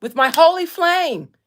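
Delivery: slow, loud holy decree; goddess decree. Acted. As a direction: proclaim like a vengeful goddess. Quoting her smite threat.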